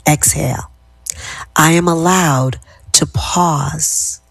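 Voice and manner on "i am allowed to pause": slow, settled, lowering tone; slow calm affirmation. Shown as a demonstration. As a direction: bring the voice down and slow it. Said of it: "how my tenor of my voice is going down".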